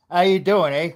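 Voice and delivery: put-on a light, joking Canadian accent on how you doing, eh; mild mock Canadian accent. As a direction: play up the Canadian eh for a viewer from Canada. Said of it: "I'm working on my Canadian accent there".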